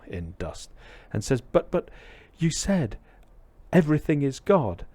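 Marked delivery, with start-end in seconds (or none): 1.4-4.9 put-on high-pitched, mildly hurt young pupil; upset, tearful protest. Shaken boy back to his master, upset protest. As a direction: protest as a bewildered, upset disciple. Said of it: "very upset and tearful".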